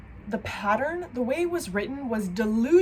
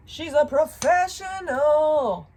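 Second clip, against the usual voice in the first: higher, louder, slow self-mocking announcement; mock grand; 7 semitones higher, 7 dB louder, slower than usual. Mocking her own clumsiness to viewers, a slow mock-grand boast. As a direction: present yourself with mock pride. Mocking herself after fumbling.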